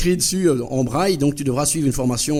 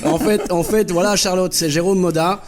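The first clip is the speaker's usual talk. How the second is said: higher and louder, bubbling with leftover laughter; excited reveal; 6 semitones higher, 5 dB louder than usual. Real, not acted. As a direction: spill the truth with glee. Prank revealed, caller laughing excitedly.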